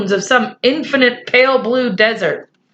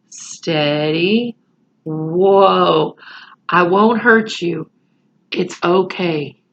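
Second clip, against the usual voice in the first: soothing cowboy; 2 semitones lower, much slower than usual. Acted. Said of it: "like the little cowboy himself".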